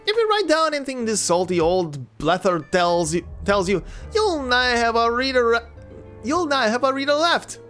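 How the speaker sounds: put-on scoffing gruff old sailor; gruff old fisherman. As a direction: scoff at the captain's tale. Scoffing lackey ghost.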